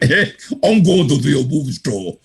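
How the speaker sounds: slow, imitated Austrian accent; horrible accent. Speaker mimics Arnold repeating his dream, thick Austrian accent. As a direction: draw it out in a mock Austrian accent. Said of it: "got a horrible accent".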